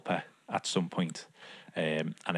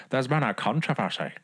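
hammed-up Scottish accent, pitched higher; attempted Scottish; 5 semitones higher than usual. Repeating the gag for co-host, mock Scottish. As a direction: put on a dodgy Scottish voice. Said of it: "it's meant to be Scottish".

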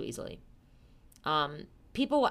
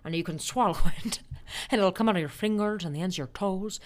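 lightly imitated old-movie leading man; an affectionate film-hero impression; George Bailey. Offering the moon to sweetheart, old-movie hero impression. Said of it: "George Bailey".

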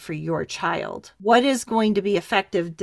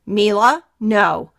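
put-on a firm, louder no to a toddler; firm mom voice; 5 dB louder, slower than usual. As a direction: say it like a mom who means it. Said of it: "good mom voice there".

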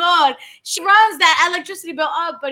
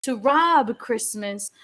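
seductive; 3 semitones lower, 3 dB quieter than usual. Real, not acted. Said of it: "Why do you sound so seductive?".

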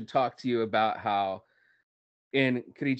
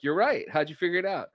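higher-pitched, impressed question; mild retold amazement; 6 semitones higher than usual. Student to the guy who guessed Dallas, mildly mock-amazed. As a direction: play lightly at being amazed.

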